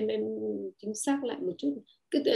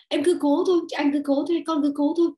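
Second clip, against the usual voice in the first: pushy urging; 4 semitones higher, 5 dB louder than usual. Retold or imitated. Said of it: "rồi ta nói là".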